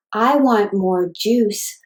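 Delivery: slow, each syllable separated by a tap; slow syllable-tapped phrase. Shown as a demonstration. Therapist modeling for a child, slow syllable-by-syllable speech. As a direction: say it one beat per syllable, slowly. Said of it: "you can tap the dots".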